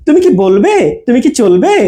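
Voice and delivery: quick "তুমি কি", rising "বলবে" and "চলবে"; fast attached কি. Shown as a demonstration. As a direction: join short "কি" to "তুমি". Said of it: "উচ্চারণটা ফাস্ট হবে". ("তুমি কি" দ্রুত, শেষে সুর ওঠে)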